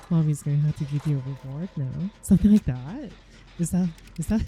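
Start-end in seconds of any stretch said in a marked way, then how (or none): 0.1-2.1 mock mommy voice. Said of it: "You're like".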